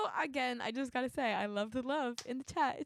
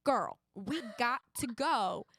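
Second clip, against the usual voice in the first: put-on Southern accent. Game player telling a beach trip story on request, Southern accent. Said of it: "Southern accent".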